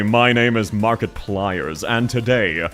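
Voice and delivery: booming greeting, then slow video-intro delivery; Markiplier. Pretend. Streamer doing a requested YouTuber intro, booming then deliberate. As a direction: open big and loud, then settle into measured announcing. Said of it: "Do a Markiplier voice".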